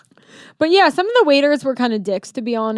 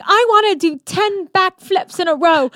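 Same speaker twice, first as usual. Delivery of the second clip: put-on higher-pitched excited kid quote; hyper kid; 7 semitones higher than usual. Woman mimicking the hyper kid at the pool, excited kid voice. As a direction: lightly voice a wound-up child.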